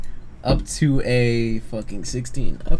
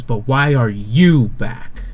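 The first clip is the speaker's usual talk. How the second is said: slow, louder, leaning on the question; pointed question; 2 semitones higher, 5 dB louder, much slower than usual. Acted. Commander looks down at the player and asks, slow and pointed. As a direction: draw it out, pressing for an answer. Game master voices stern NPC questioning player.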